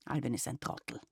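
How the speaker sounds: low, mildly grumbled dismissal; a touch of a grumpy grandfather. Acted. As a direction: grandfather grumbling about Alwin. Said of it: "sagte Opa Sepp gebrummt".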